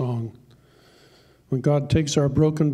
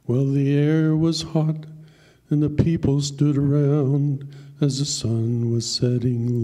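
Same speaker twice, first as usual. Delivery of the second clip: poem recitation; slower than usual. Acted. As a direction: tell the poem like a heartfelt country ballad. Recites a poem over music.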